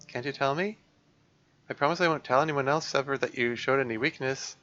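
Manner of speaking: lightly voiced heart-to-heart between two friends; acted game dialogue. Worried friend coaxes out what's wrong, lightly acted. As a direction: read both girls' lines, gently in character.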